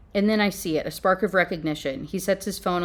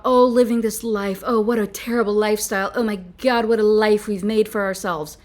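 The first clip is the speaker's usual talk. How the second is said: a light mocking sigh of the dramatic heroine, louder; 4 dB louder than usual. Reviewer mocking how the heroine whines about her life. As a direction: parody her melodrama with a hint of theatrical despair. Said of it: "this woman talks about".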